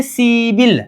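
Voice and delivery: सीबिल run together, p turned into b; सीबिल as one linked word, see-bil; linked pronunciation. Shown as a demonstration. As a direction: say सीबिल joined, with a b sound. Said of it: "ग्यारह को बोलेंगे".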